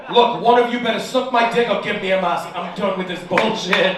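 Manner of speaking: loud, exasperated rant; fed-up outburst. Retold or imitated. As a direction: lay down the law, laughing. Fed-up ultimatum.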